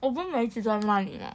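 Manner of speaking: cheeks stuffed, still chewing; mouth full. Real, not acted. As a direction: talk through a mouthful. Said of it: "满嘴的鱿鱼丝".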